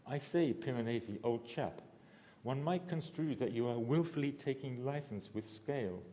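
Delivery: lightly put-on upper-class British accent; mild mock British accent addressing Piranesi. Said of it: "he speaks with a very British accent".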